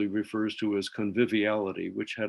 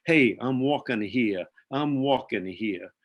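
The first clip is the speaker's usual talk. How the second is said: put-on a light Bronx accent, slow and a bit louder; 4 dB louder, slower than usual. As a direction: imitate the New York Bronx accent, slow and indignant. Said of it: "in his Bronx accent".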